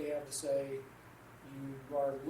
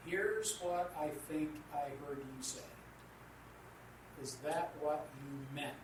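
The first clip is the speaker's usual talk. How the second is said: calm clarifying; 3 dB quieter than usual. Shown as a demonstration. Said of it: "take the time to say".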